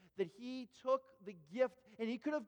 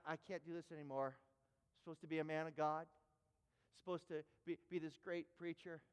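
subdued, halting, lower voice; apologetic confession; 4 semitones lower, 4 dB quieter than usual. Retold or imitated. Guest preacher apologizes to Richard from the front, subdued. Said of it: "he looks at Richard at the back of the room, and he says".

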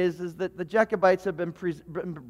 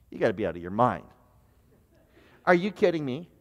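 put-on incredulous kid; 9 semitones lower, 4 dB quieter, faster than usual. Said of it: "other things that are like".

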